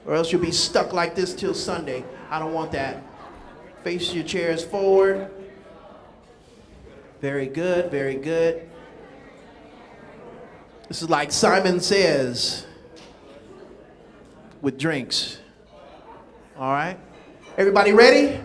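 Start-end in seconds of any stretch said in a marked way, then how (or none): 0.1-3.0 much softer and lower; hushed aside. Acted. Host drops voice to hushed tones. 3.8-5.3 much softer, slower instruction; soft slow repeat. Shown as a demonstration. Repeated softly and slowly. 7.2-17.0 much softer and lower; hushed aside. Acted. Host drops voice to hushed tones.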